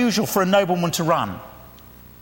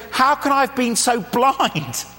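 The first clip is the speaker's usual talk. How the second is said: slower, dawning self-reproach; sudden realisation; 3 semitones higher, slower than usual. Acted. Prodigal son suddenly coming to his senses, dismayed realisation. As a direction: let it dawn on you, drawn out. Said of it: "He suddenly goes".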